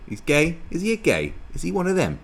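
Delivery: high-pitched mock shock; mock scandalised. Someone gossiping over whether he's gay, mock scandalised. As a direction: play an appalled questioner, pitched right up.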